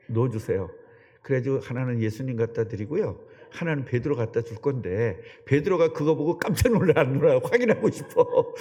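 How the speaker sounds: ordinary delivery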